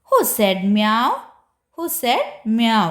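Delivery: a lightly voiced puppy, slow and curious; puppy asking. Teacher voicing the puppy for children, slow question. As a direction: ask it slowly like a puzzled puppy.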